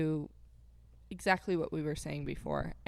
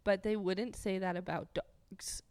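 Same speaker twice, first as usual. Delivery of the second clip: stifled laughter. Real, not acted. Breaking up after retake.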